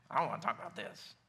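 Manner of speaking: low, subdued, closed-off reply; acting out a guarded, reluctant answer; reluctant mumble. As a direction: shut the subject down quietly and low.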